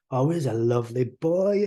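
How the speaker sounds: cooing over a dog; playful, swooping dog talk; silly pet-owner voice. Acted. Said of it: "do something silly like".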